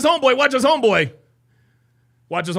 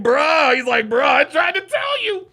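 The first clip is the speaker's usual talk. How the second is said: voicing the friend; 5 semitones higher, 6 dB louder than usual.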